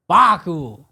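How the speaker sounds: mock African accent on a name. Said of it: "put on your African accent".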